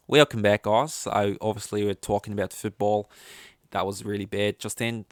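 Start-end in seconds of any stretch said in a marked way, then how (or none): 0.1-3.1 shaky attempt at an Australian accent. Shown as a demonstration. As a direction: try an Australian accent, not quite convincing. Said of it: "should we try Australian?".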